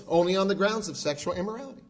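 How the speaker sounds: rattled off fast, by rote; quick stock answer. Retold or imitated. Churchgoers' automatic reply about divorce, rattled off fast. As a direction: reel it off like a memorized answer. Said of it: "their immediate response is something like this".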